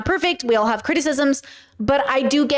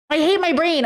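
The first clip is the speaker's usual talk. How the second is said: slightly raised, falling exasperated repeat; milder exasperation; 4 semitones higher than usual. Real, not acted. Streamer groaning over a forgotten name, mildly exasperated. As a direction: say it as a resigned complaint.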